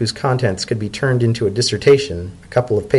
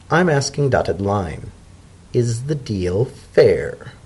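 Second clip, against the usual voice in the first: zebra elder. Acted. Macaulay presses Dodded.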